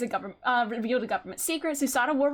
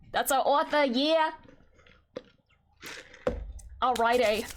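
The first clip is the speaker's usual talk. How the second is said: ordinary talk, nothing marked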